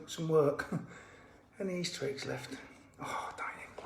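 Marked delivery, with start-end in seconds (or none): 3.0-3.8 breathy whispered oh dang it; whispered curse. Real, not acted. Sneaking indoors, whispering a curse to himself. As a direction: mutter it under your breath so nobody hears. Sneaking round the house quietly.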